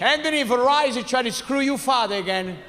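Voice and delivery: lightly voiced complaining father; father impression. Father calls his son about Verizon, mock indignant. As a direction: imitate an aggrieved father on the phone. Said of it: "My father thinks the cable company's".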